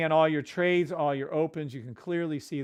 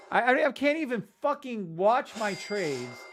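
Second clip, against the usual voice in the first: excited stammer; 7 semitones higher than usual. Real, not acted. Stunned by profits, stammers.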